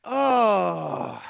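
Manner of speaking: drawn-out "oh" sinking in pitch; long groan. Acted. Partner after a hurt complaint, long groan. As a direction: let out one long falling moan. Reaction to being insulted.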